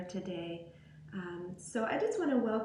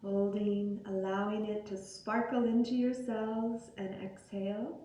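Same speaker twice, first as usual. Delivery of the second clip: guided meditation. Acted. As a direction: guide them gently into breath and body, unhurried. Leads guided breathing meditation.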